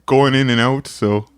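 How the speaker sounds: put-on a loose, wandering Irish accent; Irish accent drifting in and out. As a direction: put on a shaky-footed Irish brogue. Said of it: "He actually liked your Irish accent".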